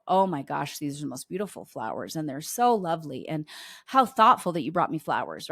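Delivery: lightly voiced gushing praise, barely acted; suggested gushing. Son coaching mom how to praise dad's flowers, understated gushing. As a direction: sketch the big fuss only lightly. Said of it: "really make a big deal about".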